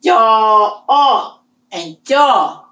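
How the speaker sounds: teacher blending syllables aloud; blending jaw and o. Shown as a demonstration. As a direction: sound out "jaw" and "o", then join them. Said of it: "jaw and O together".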